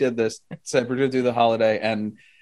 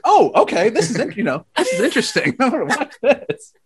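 retold eager interest; 10 semitones higher than usual. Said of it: "I was like".

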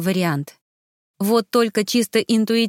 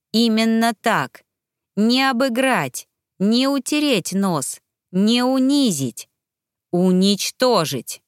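cold determination; 3 semitones higher, slower than usual. Acted. Cold wish to kill.

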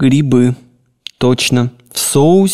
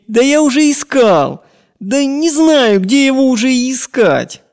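put-on sobbing boy; 13 semitones higher than usual. Servant boy sobbing to his scolding master, high tearful wail. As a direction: plead through tears, voice pitched way up. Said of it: "Мальчик продолжает рыдать".

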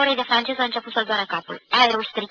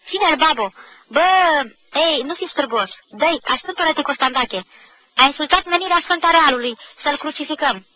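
loud, higher hammed-up rallying shout; mock battle cry; 5 semitones higher, 5 dB louder than usual. Realist boy urging a mock crucifixion of a classmate, loud. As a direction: egg the others on in play. Mock crusade against the modernist.

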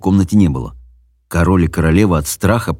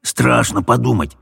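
higher, hushed echo of the king; 4 semitones higher than usual. Acted. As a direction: repeat it gloomily. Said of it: "эхом отозвался король".

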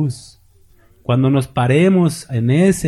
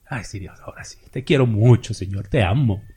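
mock sweet prayer; 5 semitones lower than usual. Mocking shallow fair-weather prayer.

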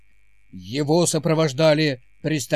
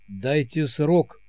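ominous; much slower than usual. Acted. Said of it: "сказал Сэм зловеще".

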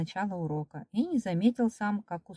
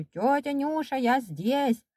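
high, glad calling; shouting; 7 semitones higher, slower than usual. A narrator's reading. Boy overjoyed to hear the cleaning lady, high calling. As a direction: call out high to someone passing. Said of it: "кричу".

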